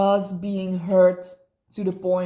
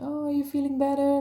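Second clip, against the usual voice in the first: quick, higher, sing-song concern; mock caring voice; 6 semitones higher, much faster than usual. Friend mimicking his fake concern. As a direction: imitate him asking sweetly. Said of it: "he was like".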